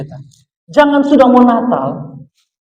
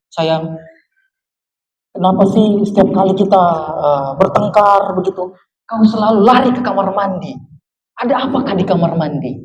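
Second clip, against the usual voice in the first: softly coaxing, slightly lowered voice; a hint of a gentle, patient husband; tender husband; 4 semitones lower, 3 dB quieter than usual. Husband asking wife about the bathroom, mildly tender.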